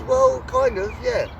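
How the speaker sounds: squeaky sheepish reply, pitched well up; meek high-pitched admission. Retold or imitated. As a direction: sound caught out, voice jumping up high. Gangster sheepishly admits robbery plan.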